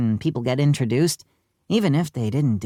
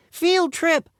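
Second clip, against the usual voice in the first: excited yell; 13 semitones higher than usual. A narrator's reading. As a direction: cheer like a thrilled pupil. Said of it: "yelled Neil".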